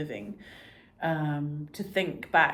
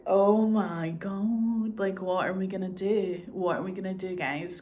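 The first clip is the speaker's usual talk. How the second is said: hammed-up fretting; mock panic; 2 semitones higher than usual. A viewer watching the maid and brother, a mock panic. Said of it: "where you just go".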